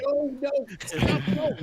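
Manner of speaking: high, loud, urgent no; alarmed protest. Acted. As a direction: shout them to a halt. Acting out blocking the nudge.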